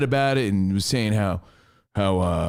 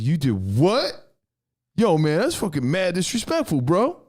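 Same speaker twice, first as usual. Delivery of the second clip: imitating an offended roommate; 4 semitones higher than usual. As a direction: play up the roommate's indignation. Roommate voiced, upset at brother.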